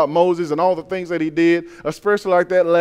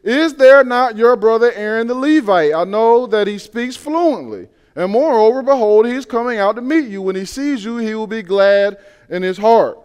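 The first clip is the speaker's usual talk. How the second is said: scriptural God voice; 3 semitones higher, 3 dB louder than usual. Retold or imitated. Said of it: "He says".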